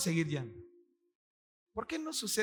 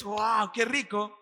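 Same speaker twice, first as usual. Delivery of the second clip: savoring wow; much slower than usual. Pretend. Savoring food in the story.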